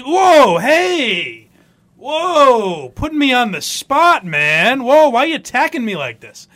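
high, defensive whoa-whoa protest; mock panicked dodge; flustered guest. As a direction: play the flustered guy caught off guard. Guest's flustered reply acted out.

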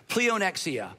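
Pleonexia spoken slowly as plee-oh-NEX-ee-uh; Greek word demo. Shown as a demonstration. Preacher teaching the congregation the Greek word Pleonexia, clear demo. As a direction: model Pleonexia for the congregation to repeat. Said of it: "The Greek term for greed is pleonexia".

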